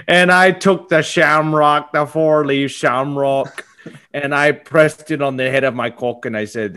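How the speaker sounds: mock Irish lad boasting; Irish accent. Mock Irish man boasting to the husband. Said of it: "pretty good Irish accent".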